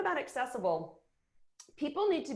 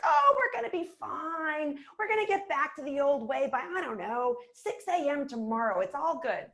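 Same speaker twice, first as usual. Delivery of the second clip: mock Pollyanna cheer; 4 semitones higher than usual. Mocking a leader reassuring the team, mock cheery Pollyanna. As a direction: play the naive cheerleader who says it's all fine. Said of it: "This is not about being Pollyanna".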